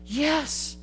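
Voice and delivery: high, bright little yes, lightly acted; mock eager yes. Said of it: "And you were like".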